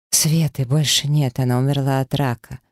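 usual speaking voice

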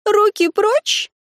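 высоко, медленно, с яростью; оттолкнуть руки короля; гневный окрик. A narrator's reading. Лури отталкивает короля. (гневно отрезая)

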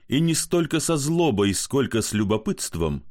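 plain reading voice

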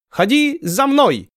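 very high, slow broken-Russian call; beckoning foreign call. Acted. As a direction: Ottoman negotiator beckoning them ashore, broken accent. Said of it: "призывно махнул".

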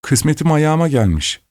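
high, delighted student's cry; excited exclamation. Acted. Student spotting the red rose, delighted and high. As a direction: crow with sudden delight. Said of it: "diye bağırdı".

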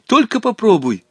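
high, sudden indignant warning; flaring up. A narrator's reading. Boy forbidding his companion to interfere, flaring up. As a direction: flare up to forbid it. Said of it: "вспыхнул Волька".

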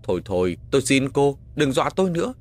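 rising, urgent plea; frightened pleading. Acted. Man begging a ghost to stop scaring him, frightened pleading. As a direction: beg to be left alone.

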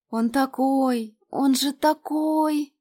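slow, high, swooning over him; dreamy. A narrator's reading. Lena swoons over the actor to Varya, slow and high. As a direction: sigh it out like a girl in love. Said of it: "С мечтательным выражением лица".

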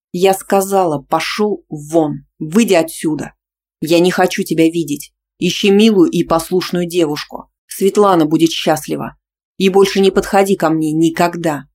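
loud furious shout. Acted. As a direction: throw him out. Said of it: "закричала я".

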